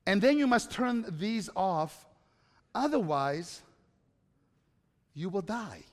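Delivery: measured, slow, lightly voiced father; a hint of a solemn electrician dad; slow stern dad warning. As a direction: slowly spell out the deadly warning. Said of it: "This is the way my dad talked".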